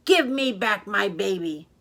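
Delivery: loud fish demand, little pitch lift; demanding big fish. Acted. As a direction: firmly demand your baby back. Big fish demands its baby back.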